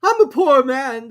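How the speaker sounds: high, slow, quavering plea; high, slow trembling Hatter. A narrator's reading. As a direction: plead with the king, trembling. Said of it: "the Hatter went on".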